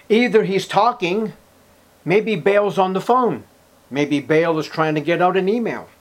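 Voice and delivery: high, loud sarcastic taunt; mocking. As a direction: ridicule their silent god. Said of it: "Elijah mocked them".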